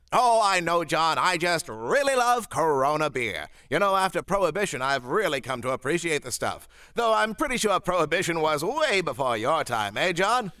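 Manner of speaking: put-on old-timey radio announcer voice; 1940s announcer. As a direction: slick vintage announcer. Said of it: "your friendly nineteen forties announcer".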